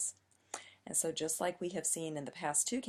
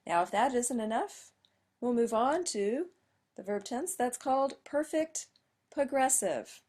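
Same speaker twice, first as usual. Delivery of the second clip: mock dramatic buildup; 6 semitones higher, 5 dB louder than usual. Teacher builds up a new tense.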